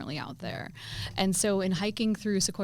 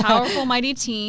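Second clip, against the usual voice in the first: louder, higher, gusty team cheer; excited echo; 5 semitones higher, 6 dB louder than usual. Real, not acted. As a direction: belt out the praise. Echoing the praise with gusto.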